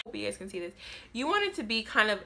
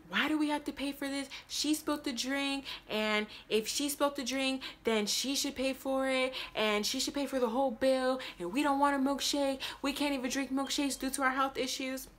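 indignant customers; 6 semitones higher, 4 dB quieter than usual. Retold or imitated. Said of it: "they're like".

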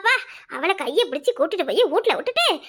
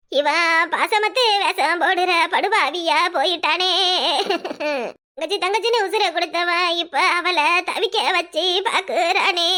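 slow lament; slower than usual. Acted. Mother laments son's coldness.

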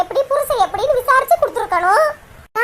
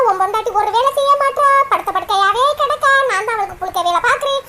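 lower, grumbling in-law voice; mock complaining mother-in-law; 3 semitones lower than usual. Mother-in-law complaining to son about lazy wife, grumbling.

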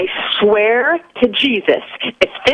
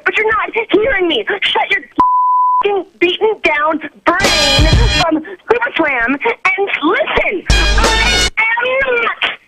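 angry rant; 2 semitones higher than usual. Real, not acted. Victim rants at callers.

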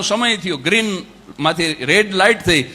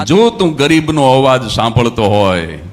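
tearful prayer, rising; 4 semitones lower, 4 dB louder than usual. Retold or imitated. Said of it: "રડતા રડતા એને કીધું". (રડતાં રડતાં પ્રાર્થના, વધતા અવાજે)

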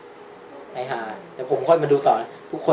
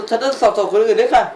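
lightly raised, higher female character voice; 7 semitones higher, 5 dB louder than usual. Acted. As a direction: voice the heroine a bit higher and louder. (เสียงตัวละครหญิงสูงขึ้นเล็กน้อย)

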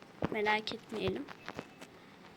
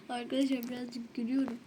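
frustrated laugh; 6 dB quieter than usual. Real, not acted. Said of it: "sinirden gülüyorum".

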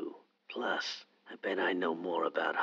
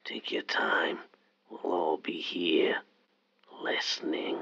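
menacing whisper. Acted. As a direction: tease her like a masked killer. Killer caller taunts.

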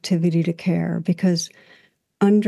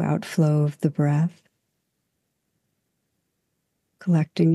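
calm guided reflection, long unhurried pauses; guided meditation. Real, not acted. Teacher guiding listeners into stillness and breath, calm meditation voice. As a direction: gently lead listeners inward, leaving space after each phrase.

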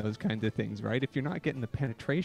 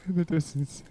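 slow, solemn recital with long pauses; earnest poetry reading, lingering between lines; dramatic poem reading; slower than usual. Acted. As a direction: read it like a heartfelt confession poem.

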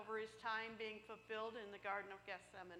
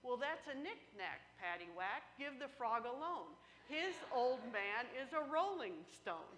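punchline; 4 dB louder than usual. Acted. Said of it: "And he goes".

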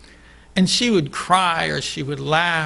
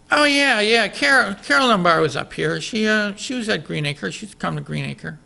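casual mother; 5 semitones higher than usual. Retold or imitated. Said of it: "she just casually said".

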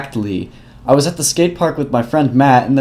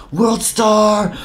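hype call; 10 semitones higher than usual. Retold or imitated. Fight-video hype call.

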